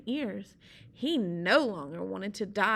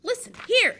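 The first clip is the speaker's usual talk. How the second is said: high, loud call to get attention; Sea Slug calling out; 12 semitones higher, 8 dB louder than usual. Acted. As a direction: shout up at the pelican. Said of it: "said Sea Slug".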